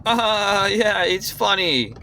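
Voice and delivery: high, drawn-out mock casual voice; dismissive laugh-it-off. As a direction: imitate him brushing it off, high and slow. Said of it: "just laughs it off and says".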